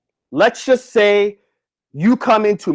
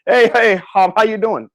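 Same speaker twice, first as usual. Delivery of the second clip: awkward greeting. Shown as a demonstration. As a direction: fumble a hesitant hello that fades at the name. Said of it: "don't be this person that's like this".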